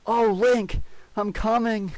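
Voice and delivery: very high, loud ecstatic cry; climax cry. A narrator's reading. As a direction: let it all out at the peak.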